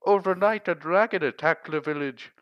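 high, loud, panicked plea; frantic farmer. Acted. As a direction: beg for help in a panic.

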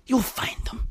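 hushed conspiratorial whisper. Shown as a demonstration. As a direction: lean in and whisper it like a secret. Repeats line as whisper.

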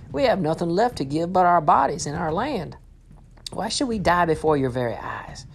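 starving villagers pleading with their lord; desperate plea. Acted. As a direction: beg for your life. Starving people plead with Joseph.

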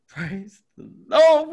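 high, loud, slow praise; relieved cry. Retold or imitated. After the agent waves them through, loud relieved praise. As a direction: let the relief burst out.

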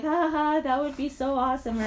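mock chuckle, playing along with a joke; imitated polite laugh-along; retold laugh. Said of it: "I'd always laugh and be like".

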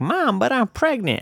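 high, mock whiny daughter; daughter's voice. Imagined bride telling her mom she's pregnant, high mock whine. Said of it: "The baby's like".

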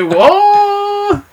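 very high imitated "wooo"; drawn-out mock howl. Novio cuenta el pedo de su novia, aullido agudo exagerado. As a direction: let out a high, exaggerated whoop. Imitating noise after the fart.

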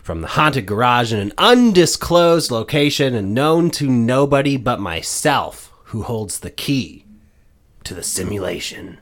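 dramatic host introduction; announcer. Acted. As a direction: ham it up like a showman. Mock-ominous podcast intro.

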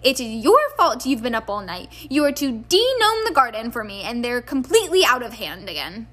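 loud, stern telling-off; scolding mother. Acted. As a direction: lay down the law. Mrs Weasley scolding.

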